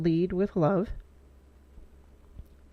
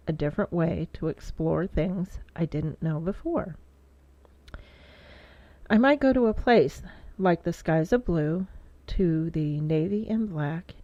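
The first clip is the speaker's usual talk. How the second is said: poem reading. Real, not acted. Writer sharing a poem written for kids, measured recital. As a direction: read your poem out in deliberate, lilting phrases. Reads own poem aloud.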